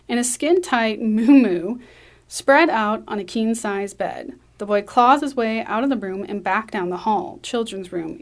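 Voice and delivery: ordinary talk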